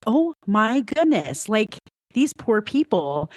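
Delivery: high, slow, put-on outrage at the rude driver; outraged. Mother in the drive-through retells her outrage, high and slow. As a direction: draw it out, scandalised and pitying. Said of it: "I was outraged".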